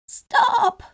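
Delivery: high, loud bleating Stop; goat bleat. Acted. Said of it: "bleated the goat".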